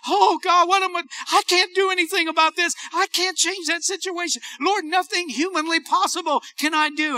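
high-pitched helpless prayer; worked-up plea. Retold or imitated. Preacher retells praying over his mountains, worked-up plea. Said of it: "you're so worked up".

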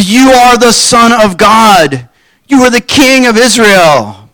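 mock awestruck declaration; awed exclamation. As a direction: proclaim it with sudden conviction. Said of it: "that is like a fast turnaround".

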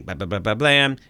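rapid mouth-made gunshots, last one punched; imitated gunfire. Host recapping the shooting in a scene, imitated gunfire. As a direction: fire off gunshots with your voice. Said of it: "then we hear shooting".

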